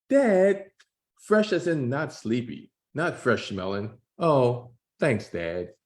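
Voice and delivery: Jordan voice. Acted. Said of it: "I'm gonna try to do voices to distinguish".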